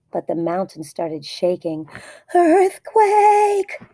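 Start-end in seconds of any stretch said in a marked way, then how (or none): 2.3-3.8 high, loud alarmed squeak; cried out. A narrator's reading. Guinea pig explorer warning the pigs, high loud cry. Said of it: "cried Fluffy the Explorer".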